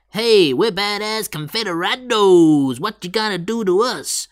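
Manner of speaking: hammed-up badass bragging; mock tough guys. Host playing the Confederados taunting their foes, mock swagger.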